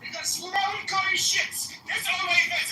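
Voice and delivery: hammed-up Indian English caricature, needling the other guy; put-on Indian accent. Trolling a stranger online in a put-on Indian accent.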